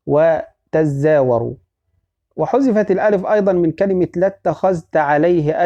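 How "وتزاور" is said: وتزاور said slowly, long a after the zay; slow, deliberate وتزاور with long zaa; long-a reading, slow. Shown as a demonstration. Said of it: "حتى تشمل".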